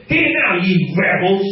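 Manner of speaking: lightly acted angry rebuke; angry Moses. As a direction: act out an angry leader scolding the people. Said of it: "'cause he was so angry".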